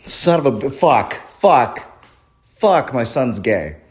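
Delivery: lightly acted dismayed dad, cursing in bursts; mock a dad dreading bad news, spacing out the swears; mildly panicked father imitation; freaking-out dad. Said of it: "he was freaking out".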